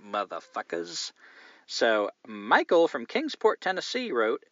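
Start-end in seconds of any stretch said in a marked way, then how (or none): 1.7-4.4 slow Southern drawl on "Michael from Kingsport, Tennessee"; Southern accent. Shown as a demonstration. Host reading a Tennessee listener's name in Southern accent. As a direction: ease into a lazy Southern accent. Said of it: "Here's where I get to use my southern accent".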